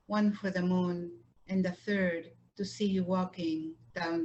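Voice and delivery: measured poem recitation with line-end pauses; unhurried poet's reading, pausing between phrases; poetry reading. Acted. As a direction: read it line by line, letting each phrase settle. Poet resumes reading her poems.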